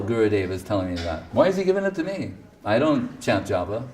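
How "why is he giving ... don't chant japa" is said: smiling, amused. Retold or imitated. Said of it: "With a smile".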